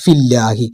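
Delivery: ഫില്ലാഹി with a thin, light ലാ; ഫില്ലാഹി without a heavy ല; correct Arabic reading. Shown as a demonstration. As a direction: model ഫില്ലാഹി softly for the learner. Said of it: "ഫില്ലാഹി എന്ന് വായിക്കുക".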